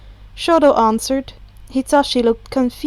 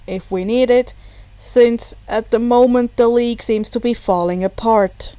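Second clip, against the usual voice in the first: lower, deadpan explanation; dry bartender voice; 3 semitones lower than usual. Acted. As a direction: explain it dryly.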